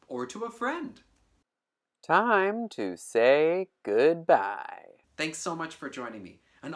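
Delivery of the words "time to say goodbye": loud announce. Acted. Sign-off announcement.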